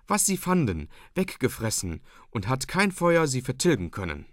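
lightly voiced frightened maid; agitated maid telling omens. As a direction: rattle off the portents in alarm. Maid Angrete tells of omens.

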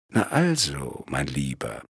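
low, soft murmur to himself. A narrator's reading. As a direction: mutter it quietly, satisfied. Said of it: "murmelte er".

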